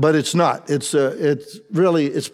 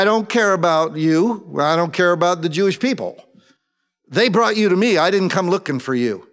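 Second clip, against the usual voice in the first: mildly dismissive retort; a touch of scornful indifference; sarcastic; 3 semitones higher than usual. Retold or imitated. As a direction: brush the prisoner off with some sarcasm. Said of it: "Pilate answered sarcastically".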